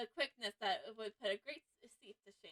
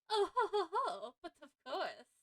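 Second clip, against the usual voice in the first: hearty ho ho laugh; 5 semitones higher, 4 dB louder than usual. Acted. Voiced character laughs.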